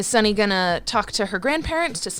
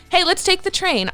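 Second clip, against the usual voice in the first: Kaylee voice; 8 semitones higher than usual. Acted. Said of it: "Kaylee says".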